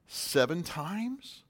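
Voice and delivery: slow, self-satisfied guess; proud offer. Retold or imitated. Peter slowly offers Jesus seven times, fishing for praise. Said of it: "he's waiting for the pat on the back".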